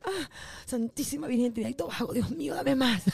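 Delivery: mock orgasm cry.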